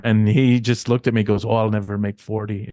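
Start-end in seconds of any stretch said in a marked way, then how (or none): 1.5-2.7 put-on light British accent, a bit softer; a hint of a British accent imitating the Bulldog; British Bulldog's accent. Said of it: "in his accent".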